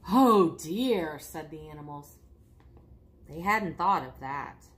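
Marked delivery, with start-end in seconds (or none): 0.1-1.2 loud, sinking "oh dear"; chorus-like regretful exclamation; dismayed. Acted. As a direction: let realisation land with mild dismay. Animals realise their mistake.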